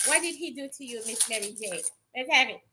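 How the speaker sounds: soft, hushed coaxing; quiet. Acted. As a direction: ask her softly and coax her. Asking the spirit once more.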